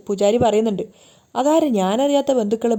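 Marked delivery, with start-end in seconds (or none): 1.3-2.7 a touch of suspicion, pitch jumping at first; suspicious questioning. Acted. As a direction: ask it with sudden doubt. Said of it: "Bhanumathi അമ്മയ്ക്ക് സംശയാവാണ്".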